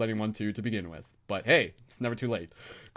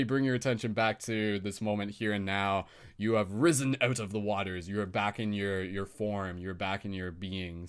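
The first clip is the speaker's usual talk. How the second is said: meditation close; 3 semitones lower than usual. Acted. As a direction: ease them gently out of the visualization. Closing the meditation.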